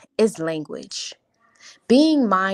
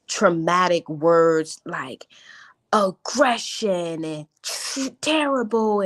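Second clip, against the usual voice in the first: downplayed whisper; slower than usual. Shown as a demonstration. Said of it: "I don't put emphasis on those words".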